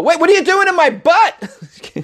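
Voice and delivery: high, slow shocked dog voice; the dog suddenly alarmed, drawn out. Pretend. Bubba the husky, shocked high slow voice. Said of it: "the poor dog is like".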